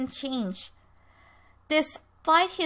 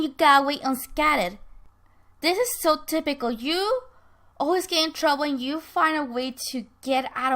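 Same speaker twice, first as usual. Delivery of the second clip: bitter accusation; 2 semitones higher, 5 dB louder than usual. Acted. Bitter accusation in acted quarrel.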